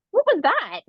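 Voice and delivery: high, startled retelling of a friend's question; imitating surprised friend. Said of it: "He was like".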